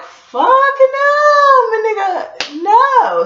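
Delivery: high, loud panicked refusal; shrieking no, pushing him off; high shout of refusal. Retold or imitated. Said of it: "And I'm like".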